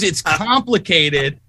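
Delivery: slow, dragged-out, evasive; slow drawn-out quote. Retold or imitated. Mocking the FDA head's evasive answer, slowly drawn out. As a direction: draw each word out like a dodge. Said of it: "She says".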